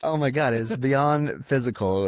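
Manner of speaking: high, drawn-out rapture; retold bliss. Acting out first meat after veganism.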